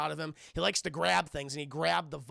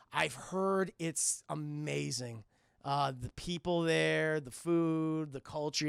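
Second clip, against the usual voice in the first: dreamy admiration; 3 semitones lower, slower than usual. Acted. Acting woman dreaming about Mars.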